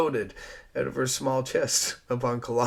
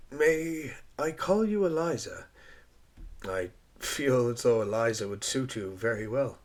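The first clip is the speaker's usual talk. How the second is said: gentle flirting. Acted. Rogers asking to call her Eliza, gently. Rogers asks to use name.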